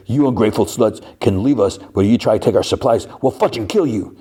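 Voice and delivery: retold threat with a little heat; retold angry threat. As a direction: act out a man threatening those who cross him. Man threatens women leaving him.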